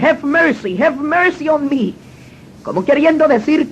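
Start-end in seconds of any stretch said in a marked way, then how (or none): 0.0-1.9 slow, broken plea for mercy in English; a young man crying as he begs the gang for mercy; pleading in tears. Retold or imitated. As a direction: beg for your life, slowly. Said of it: "El joven empezó a llorar y a decir".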